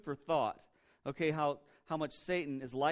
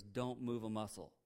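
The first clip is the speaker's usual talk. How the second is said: low, soft imitation of a cautious friend; retold hushed warning; 6 semitones lower, 9 dB quieter than usual. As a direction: quote a careful warning, keeping it down. Friend warns of snake underfoot.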